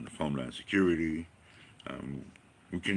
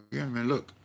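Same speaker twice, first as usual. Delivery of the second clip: emphatic; 4 semitones higher than usual. Retold or imitated. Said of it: "And I go".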